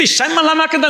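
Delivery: quick, high imitation of ecstatic shouting; retold cry. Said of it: "porque ele grita".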